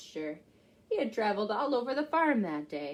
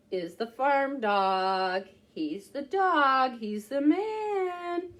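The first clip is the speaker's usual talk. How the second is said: put-on reading to children; 3 dB louder, slower than usual. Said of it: "reading to children, slow emphasis".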